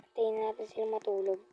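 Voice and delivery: whispering. Real, not acted. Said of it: "sneaking prank vlog".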